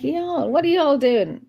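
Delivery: high, drawn-out imitation American y'all; picked-up American accent. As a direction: lightly mimic an American accent, stretching it out. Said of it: "I'm beginning to keep saying y'all".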